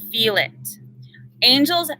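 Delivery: unvoiced, breathy whisper. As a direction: whisper it gently to the group. Guiding participants to feel energy.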